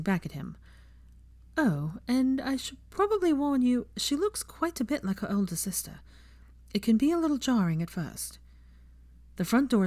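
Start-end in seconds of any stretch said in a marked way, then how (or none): 1.6-8.4 put-on higher, reassuring young woman's voice; lightly voiced Hermione soothing a nervous friend. Hermione reassuring nervous Draco, lightly voiced.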